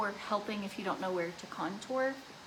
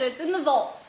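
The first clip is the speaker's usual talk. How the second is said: playful vow; 5 semitones higher, 8 dB louder than usual. Retold or imitated. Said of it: "I said".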